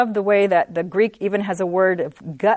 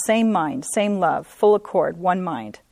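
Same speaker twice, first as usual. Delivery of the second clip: "same mind, same love, full accord, one mind" as separate, weighted phrases; emphasized key words; slower than usual. Shown as a demonstration. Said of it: "I emphasize the words".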